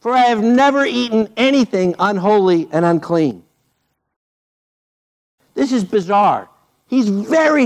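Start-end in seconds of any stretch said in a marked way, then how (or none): 0.0-3.4 Peter refusing. Retold or imitated. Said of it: "But Peter said".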